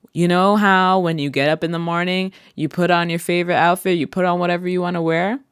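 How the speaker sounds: walk grandma through it; coaching grandma. Retold or imitated. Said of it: "What was that conversation like?".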